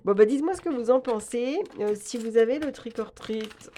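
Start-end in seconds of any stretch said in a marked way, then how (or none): 2.6-3.7 "Trick or Treat" in a mock English accent; jokey English accent on "Trick or Treat"; self-mocking English accent. Real, not acted. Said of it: "avec mon bel accent anglais".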